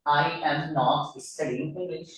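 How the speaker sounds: very slow, careful reading; slow example read. Shown as a demonstration. Teacher reads the example sentence slowly. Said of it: "इसका example है".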